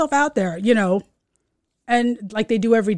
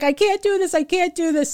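higher-pitched imitation of panic; mock panic; 7 semitones higher than usual. Niece refusing to push the car, mock panic.

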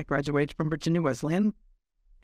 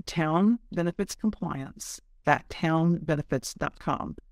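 slow, clear spelling-out; slower than usual. Shown as a demonstration. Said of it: "our town is spelled T O W N E".

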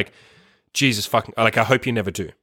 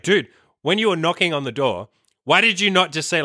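higher-pitched, incredulous telling-off; retold protest, pitched up in disbelief; exasperated scolding; 6 semitones higher than usual. Retelling telling off the drunk mate for silent knocking, exasperated.

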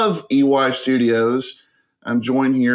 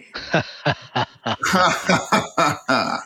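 sinister laugh; 3 semitones higher than usual. Real, not acted. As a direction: chuckle like a villain behind the scenes. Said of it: "I like the kind of sinister laugh".

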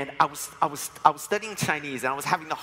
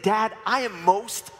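put-on excited kid; 4 semitones higher than usual. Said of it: "Francis was really excited".

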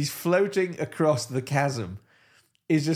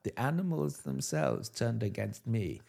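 softer, lower dark confession; hushed dramatic reveal; 3 semitones lower, 5 dB quieter than usual. Pretend. Hitler confessing the animals' betrayal, hushed dark voice. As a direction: let it drop like a grim secret.

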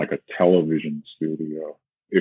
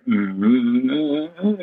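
squishy hum; 6 semitones higher than usual. Shown as a demonstration. Teacher showing the wrong squishy feeling, a rising hum. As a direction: hum it squishy with a rise at the end. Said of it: "you don't wanna feel like you're going like".

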